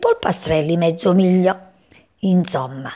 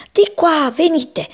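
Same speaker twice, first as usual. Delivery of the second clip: high, louder agitated call; 9 semitones higher, 4 dB louder, slower than usual. A narrator's reading. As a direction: call them over in a panic. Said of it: "era Ermete agitatissimo".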